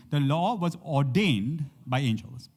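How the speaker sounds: a preacher slowing down to drive the line home; slow, deliberate repeat. Shown as a demonstration. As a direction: lay it out slowly so it sticks. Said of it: "let's say it again".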